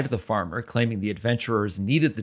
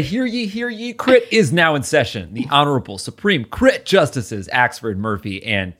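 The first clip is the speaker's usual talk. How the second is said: town crier. Acted. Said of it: "I will say".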